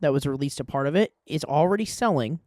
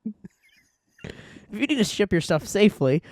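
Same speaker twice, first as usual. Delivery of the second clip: vampire voice; 6 semitones higher, slower than usual. Pretend. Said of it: "why do I sound like a vampire?".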